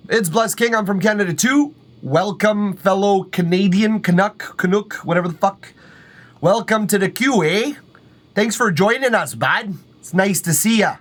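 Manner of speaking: high, bouncy hammed-up Canadian accent with "eh" and "bud". Streamer greets a fellow Canadian in a playful Canadian accent. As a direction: play the friendly Canuck in a jokey Canadian accent. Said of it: "interrupting me in my accent".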